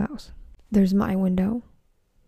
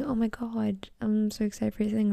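quoted text; 6 dB quieter than usual. Retold or imitated. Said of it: "people that text me saying".

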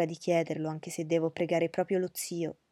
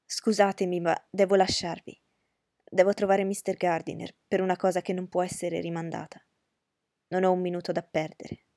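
hurried exclamation; 4 dB louder than usual. Acted. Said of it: "esclamò in fretta".

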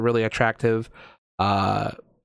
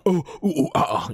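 higher, fumbling mock-idiot noises; 4 semitones higher than usual. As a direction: play a babbling fool, lightly. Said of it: "like fucking idiot".

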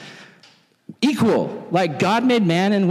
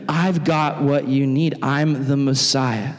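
slow, lower earnest claim; slow lower solemn voice; solemn reveal; 4 semitones lower, slower than usual. Retold or imitated. Jesus revealing himself.

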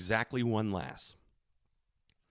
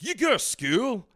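high, slow mock Scottish accent; overdone Scottish brogue, pitched up; put-on Scottish accent; 8 semitones higher, 4 dB louder than usual. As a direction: ask in clumsy, word-dropping Scottish. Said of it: "I'm dropping words out".

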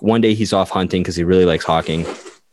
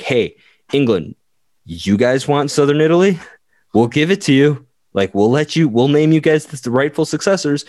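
higher, eager pitch offering England the kingdom; papacy eagerly offering England a kingdom, higher pitch; eager sales pitch; 6 semitones higher than usual. Acted. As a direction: talk it up like a keen salesman.

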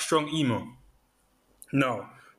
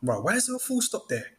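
suspicious questioning; 7 semitones higher than usual. Acted. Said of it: "you're reading the email thinking".

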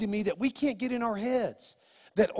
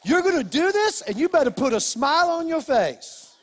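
stern dad; 5 semitones higher, 4 dB louder than usual. Retold or imitated. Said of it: "I turn them around and I say".

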